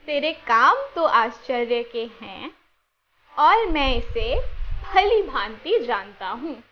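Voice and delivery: slow verse recited together, steady pace; slow group recitation. Shown as a demonstration. Teacher reciting the memory verse together with children, slowly. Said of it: "साथ में बोलेंगे".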